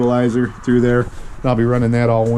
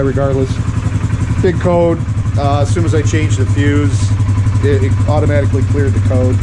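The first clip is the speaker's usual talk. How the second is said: raised voice over the engine noise; talking over engine; 3 dB louder than usual. Real, not acted. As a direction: speak up over a running motor.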